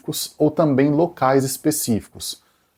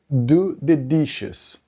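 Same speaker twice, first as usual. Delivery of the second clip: very slow, drawn-out phrase; slow example read; much slower than usual. Shown as a demonstration. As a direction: stretch it out for students. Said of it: "um exemplo clássico". (muito devagar, didático)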